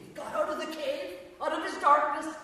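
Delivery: high, loud, rousing proclamation; exultant preaching. Real, not acted. Preacher proclaiming Elijah's release from the cave, loud and exultant. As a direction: build to a triumphant shout.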